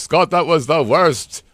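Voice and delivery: hammed-up verdict in a movie-star voice; Cary Grant. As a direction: stretch it out like an old film star. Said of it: "That sounded like Cary Grant".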